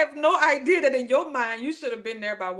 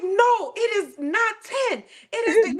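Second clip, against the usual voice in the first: mock insistent; 9 semitones higher, 3 dB louder than usual. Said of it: "You're like".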